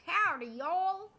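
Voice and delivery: drawled Southern US accent, slow; a touch of country Southern twang accent; slow Southern American accent, stretched vowels. Shown as a demonstration. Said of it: "American accent that's like".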